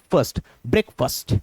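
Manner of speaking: फर्स्ट as "fust", then ब्रेकफास्ट as "brek-fust"; correct short vowel. Shown as a demonstration. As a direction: reduce both फर्स्ट and the end of ब्रेकफास्ट to "fust". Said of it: "बल्कि क्या होगा".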